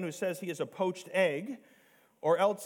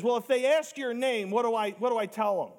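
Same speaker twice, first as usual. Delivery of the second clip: higher, louder mock-worried protest; concerned Moses; 6 semitones higher, 5 dB louder than usual. Moses raising excuses to God about Pharaoh, acted concern. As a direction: imitate a mildly fretful objection. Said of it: "Moses is concerned about it".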